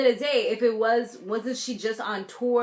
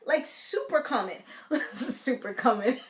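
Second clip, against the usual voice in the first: laughing; 4 semitones higher than usual. Real, not acted. Laughs at her own phrase.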